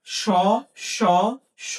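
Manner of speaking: "স, স, স" as three identical sounds, spaced apart. Shown as a demonstration. Teacher showing students three letters share one sound, "স" pronounced identically each time. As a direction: say each "স" the same way, separately. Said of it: "একই রকম হচ্ছে".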